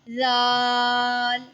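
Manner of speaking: जाल held long, soft and without hiss; long soft zaal. Shown as a demonstration. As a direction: draw जाल out gently. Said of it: "मज़ीद लंबा करेंगे". (जाल लंबा और नरमी से)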